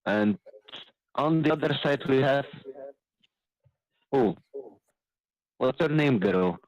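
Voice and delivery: lightly voiced fight presenter, lifted pitch; ring announcer. Dwarf asking the other fighter's name, lightly put-on announcer. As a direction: start a grand introduction, then falter.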